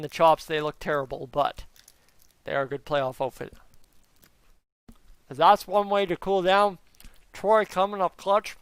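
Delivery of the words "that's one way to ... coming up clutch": talking through ice cream; words around a mouthful; mouth full. Real, not acted. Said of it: "Me talking with my mouth full".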